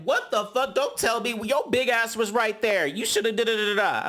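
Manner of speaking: high-pitched retold telling-off; mock indignation. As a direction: imitate an outraged woman scolding someone. Acting out Sky snapping back at guard.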